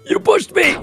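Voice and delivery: high-pitched accusing cry; indignant outcry. Real, not acted. Player blaming a teammate for the fall, indignant outcry. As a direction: cry out in protest.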